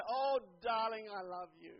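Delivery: acted sweetheart talk, unhurried; loving endearment. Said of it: "with a different expression".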